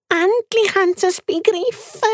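tiny pet squeaking its complaints; squeaky guinea pig. Acted. Guinea pig to friend, squeaky and fussy.

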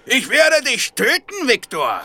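slow, menacing imitation of the caller; mock caller threat. Tim mimics the anonymous caller's threat to Viktor, slow and menacing. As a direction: quote the threat slowly, a touch sinister. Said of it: "Wie war das?".

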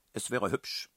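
deliberate and pointedly civil; slow, measured remark. A narrator's reading. Karlchen asks headmistress for courtesy, slow and deliberate. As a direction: take your time objecting politely. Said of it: "sagte Karlchen langsam".

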